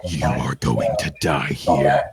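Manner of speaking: low, slow, deliberate menace; menacing threat. Acted. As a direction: pronounce the enemy's doom. Villain threatens his attacker.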